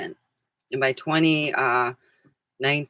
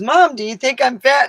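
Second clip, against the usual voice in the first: daughter's worried question; 9 semitones higher, 9 dB louder than usual. Retold or imitated. Daughter voiced in story.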